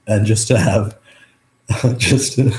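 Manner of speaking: real welling-up, laughing through it; emotional. Real, not acted. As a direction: fight to get the words out. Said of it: "getting a little emotional".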